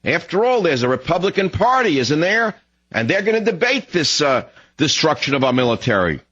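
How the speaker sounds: high, swooping voice of false hope; mock-hopeful inner voice; naive self-reassurance. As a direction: talk yourself into believing it, high and lilting. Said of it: "I say to myself each day".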